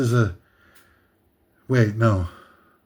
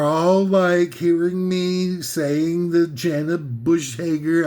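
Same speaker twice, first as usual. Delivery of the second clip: mock snooty; much slower than usual. Mocking fans of Jenna Bush Hager.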